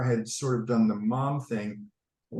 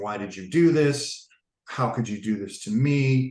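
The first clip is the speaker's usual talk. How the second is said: slower, mock-angry outburst; 3 dB louder than usual. Recounting processing things with little Teddy, the speaker acts out retelling angry words. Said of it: "some some anger and and and I'm like".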